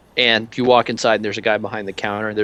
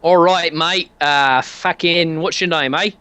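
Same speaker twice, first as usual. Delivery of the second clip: stumbling put-on British accent; a shaky Brit shopkeeper voice; bad British accent; 5 semitones higher, slower than usual. The speaker introducing himself in a fumbled British accent. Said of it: "can't do this accent very well".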